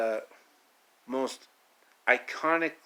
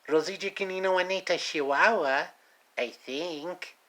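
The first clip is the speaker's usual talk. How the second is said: put-on quick, higher jokey Mexican accent for the bull; 4 semitones higher than usual. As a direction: rattle off the names in a playful Mexican accent. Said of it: "speaking in a Mexican accent".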